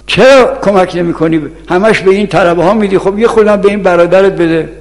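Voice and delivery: mock scolding, short of a full shout; retold scolding. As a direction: imitate a mother telling off her son. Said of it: "اون داد زد".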